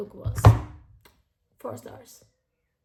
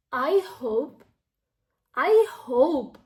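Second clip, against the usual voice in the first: rising louder and louder; real emotional wish; 9 dB louder, slower than usual. Real, not acted. Reader wishing for love like the book's, building emotion.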